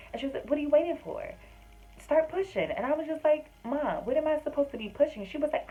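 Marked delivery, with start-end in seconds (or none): 0.5-2.7 much higher, louder mock-urgent mom voice; pushy mom. Mom urging her on the phone. 3.6-5.3 higher and louder, mock bewildered; retelling her own confused reply to mom; baffled daughter.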